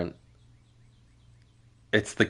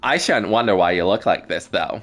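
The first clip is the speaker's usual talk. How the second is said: unhurried Southern Belle drawl. Acted. Astral being showing they know Sifrin, slow Southern Belle accent. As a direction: play a knowing Southern Belle. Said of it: "I don't know why I went Southern Belle".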